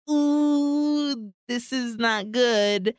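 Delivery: slow, wincing uh-oh voice; grimacing dread. Retold or imitated. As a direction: wince it out like you're in trouble. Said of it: "Max's face is kind of grimacing like".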